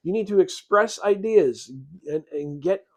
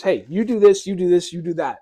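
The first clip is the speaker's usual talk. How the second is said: curt, louder commands fired off; barking orders; 5 dB louder than usual. Retold or imitated. Leader in a life-or-death crisis, barking orders. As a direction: bark the orders like a field commander. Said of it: "of course I'm gonna bark orders".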